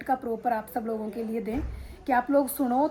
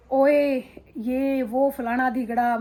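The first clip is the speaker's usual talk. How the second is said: a louder, offhand "oye" tossed at the husband; rude wife imitation; 4 dB louder, much slower than usual. Wife at home bossing her husband, louder and dismissive. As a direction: brush him off like a bossy wife. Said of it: "इस तरह से tone change हो जाती है".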